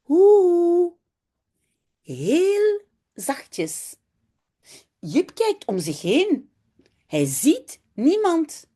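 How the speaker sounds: put-on lively children's story reading in Dutch, voices for the kids; story narration. A narrator's reading. Teacher reads a Dutch story to her class, lively and clear. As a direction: read it aloud like to a class of children.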